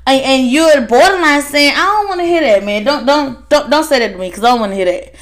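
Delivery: nervous high-pitched worker begging them to stop; mock-panicked plea, voice way up; high frightened protest. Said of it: "it's kinda like".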